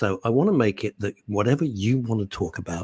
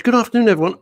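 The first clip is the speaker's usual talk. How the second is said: high, lightly put-on voice for Paul; mild imitation of a listener; mock posh voice; 10 semitones higher, 4 dB louder, much faster than usual. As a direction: imitate Paul's greeting in a raised voice. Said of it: "Paul speaks like th".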